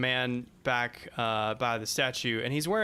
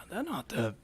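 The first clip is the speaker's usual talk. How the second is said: hushed, confiding aside; softly muttered soldier's aside; stage whisper between soldiers; 6 dB quieter than usual. Acted. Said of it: "kind of whisper to each other".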